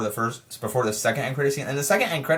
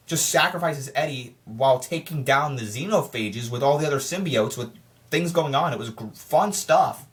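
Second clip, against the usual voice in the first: breathless rushed talking; running out of air mid-rant; out of breath; 2 semitones lower than usual. Real, not acted. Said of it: "I'm kinda getting out of breath".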